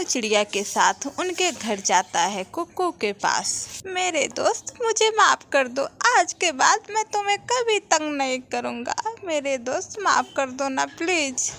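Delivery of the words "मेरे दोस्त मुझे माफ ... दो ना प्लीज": put-on higher, begging young boy; a touch of a sorry little kid; pleading child. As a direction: beg your friend to forgive you. Boy begs friend forgiveness.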